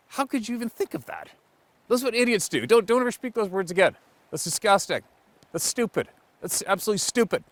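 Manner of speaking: high, loud, indignant tirade; angry rant. Acted. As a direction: berate them with disgust. Angry rant at a dumb claim.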